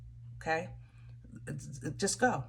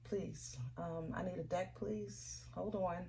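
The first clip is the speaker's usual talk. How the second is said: soft breathy whisper to the deck, nearly silent; whispered plea; 14 dB quieter than usual. Real, not acted. Reader whispering to her cards for a deck, hushed. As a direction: whisper a request under your breath.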